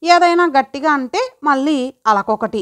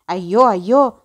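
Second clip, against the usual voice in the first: fussing grandmother; 4 semitones lower than usual. Acted. Grandmother scolding girl.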